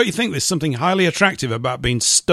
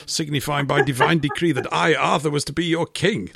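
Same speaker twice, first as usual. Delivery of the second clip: King Arthur. Retold or imitated. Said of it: "that's from Monty Python".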